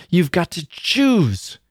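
slow, high, drawn-out ultimatum; menacing cry. A narrator's reading. Girl forcing him to choose, menacing cry. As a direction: draw out CHOOSE as a threat. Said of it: "she cried, as if it were some terrible menace".

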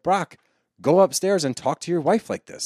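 mock exasperated call. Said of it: "I was like".

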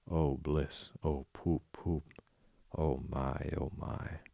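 lost in a happy trance; dreamy Toad voice. Acted. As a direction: breathe it out in rapture. Toad in rapture over motor car.

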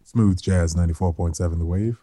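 smooth radio announcer; smooth jazz DJ voice. Pretend. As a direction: croon the station ident like a jazz DJ. Mock radio DJ station ident.

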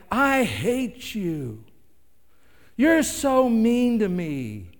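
high, loud, drawn-out mock tantrum; upset child. Child lashing out at parent, mimicked whiny tantrum. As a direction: wail it like a hammed-up sulking kid.

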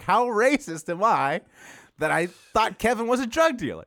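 high, slow mock disbelief; retold self-reproach. Storyteller realizes he misjudged Kevin, mock-appalled disbelief.

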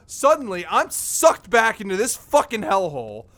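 angry, heated tirade; furious rant. Acted. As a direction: rant at them, seething.

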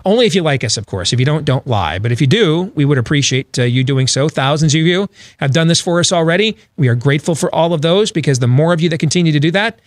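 lively host welcome and plugs; energetic broadcast read; radio show opening. Acted. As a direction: open the hour like a talk-radio host. Host opens the second hour.

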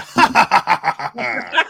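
high, loud taunting laugh; mocking laugh. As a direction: laugh in his face.

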